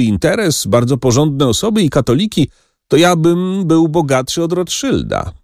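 put-on high, eager boasting old dealer; excited moneylender. A narrator's reading.

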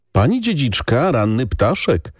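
a plump reaper greets the lady, high and playful; stout peasant woman calling. A narrator's reading. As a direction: tease her as an early bird. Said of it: "zawołała druga zażywna kobieta".

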